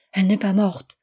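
écho plus fort d'une foule; foule qui répète. A narrator's reading. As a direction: comme mille voix qui reprennent ensemble. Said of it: "Mille voix répètent". (la foule reprend la nouvelle, un peu plus fort)

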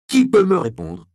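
crié beaucoup plus haut et plus fort, menaçant; martèle la question comme une menace. Acted. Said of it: "répéta Andreas de plus en plus menaçant". (Andreas répète sa question au moine, de plus en plus menaçant)

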